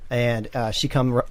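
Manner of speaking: ordinary talk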